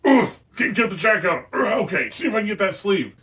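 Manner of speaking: a lightly voiced Father Christmas grunting into a live mic; grumbling Father Christmas dressing. Storyteller unaware his mic is on, lightly voiced Father Christmas. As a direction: mutter through the effort of pulling on a jacket. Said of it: "you hear this voice going".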